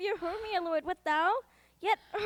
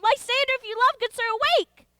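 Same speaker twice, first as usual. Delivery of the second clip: urgent calling; 5 semitones higher, 4 dB louder, faster than usual. Acted. Helena tries to wake Lysander.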